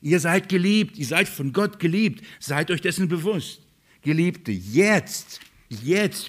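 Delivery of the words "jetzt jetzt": jetzt repeated, each one rising; stress on jetzt. Shown as a demonstration. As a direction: hammer home the word jetzt. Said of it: "ich betone".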